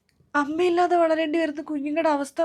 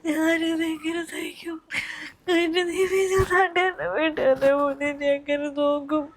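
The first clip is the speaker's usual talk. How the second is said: crying lament. Acted. Mother lamenting to her friend, crying. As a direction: mourn through the tears. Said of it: "നിങ്ങളൊന്ന് കരയാണ്ടിരിക്കേ".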